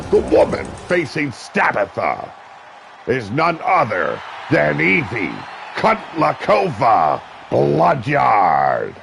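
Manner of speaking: live wrestling play-by-play, rising with the action. Acted. Commentator calling a wrestling match for viewers, play-by-play. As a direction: call the match like a ringside announcer.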